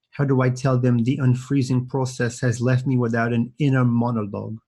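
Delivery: put-on a passing stab at a British accent, lowish; quoting Austin Powers in a light British accent. Streamer quoting Austin Powers to chess kids, light British accent. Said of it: "sorry about the British accent".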